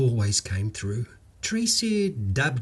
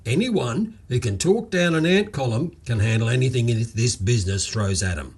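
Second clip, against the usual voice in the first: delighted; 4 dB louder than usual. Acted. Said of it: "like he'd discovered the Holy Grail".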